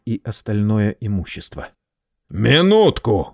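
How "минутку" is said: barking. Acted. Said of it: "рявкнул Герат".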